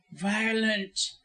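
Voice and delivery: high, frightened exclamation; cowed but indignant, pitched high; gasped alarm. A narrator's reading. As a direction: gasp it in protest. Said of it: "he gasped".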